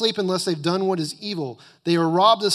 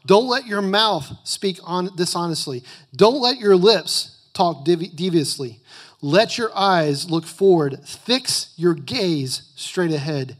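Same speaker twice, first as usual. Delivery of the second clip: loud, emphatic scripture reading; preaching; 4 dB louder than usual. Acted. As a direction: preach the verses with full force. Reads scripture at full force.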